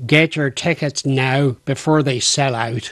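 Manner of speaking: menacing, threatening delivery in Northern Irish accent. After a Southern Irish line, switching to a Northern Irish accent. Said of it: "the next thing I say has to be a Northern one".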